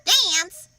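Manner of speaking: high, loud shocked question; alarmed exclaim. Acted. Jim exclaiming in alarm at the idea of dancing. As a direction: blurt it out in alarm. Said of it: "exclaimed Jim".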